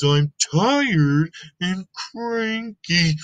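slow, grumpy tired voice; slow cranky elephant. Acted. Gerald telling Piggy why he naps, slow and cranky. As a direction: drag it out like a grump.

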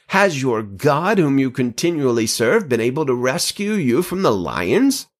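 American attempting a British king's accent; put-on British questioning, done poorly. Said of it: "Kind of a British accent".

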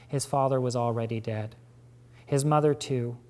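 measured, even novel reading; story narration. A narrator's reading. Reader narrating a novel to an audience, even storytelling voice. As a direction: read the scene out for the listeners.

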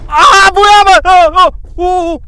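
loud, high screaming in real fright; terrified yell. Real, not acted. Player reacting to a sudden scare, terrified yell. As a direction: yell out in high, startled bursts.

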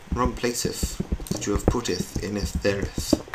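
mock-Shakespearean wording in an everyday voice; mock medieval speech. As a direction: play at olde English with lisped -eth endings. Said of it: "speak like that in, like, medieval times".

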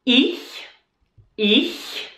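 ich with a breathy ch, air flowing out; slow ich. Shown as a demonstration. Teacher showing how to say ich. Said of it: "So let's say it slowly".

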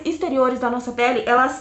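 speaking through fingers; muffled by hand over mouth. Real, not acted. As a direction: hand pressed to lips. Seen 0: Hand covers mouth only at start; hands move to gesture by 0.6s.

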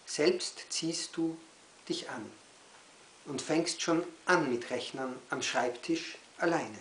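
measured lines parted by pauses; poem recital. Acted. Poet reads e-learning poem to children, poem recital. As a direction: recite it phrase by phrase.

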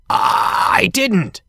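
high, drawn-out protest of disbelief; stuttering disbelief. A narrator's reading. Bear denying the engines' accusations, shocked disbelief. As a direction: protest it high, stumbling into the first word. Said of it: "Bear stuttered in disbelief".

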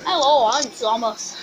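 slow, loud, badly faked Scouse; hammy Liverpool-accented greeting, drawn out; dodgy Liverpool accent. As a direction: put on a rough attempt at a Liverpool accent. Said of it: "Very dodgy Liverpool accent there".

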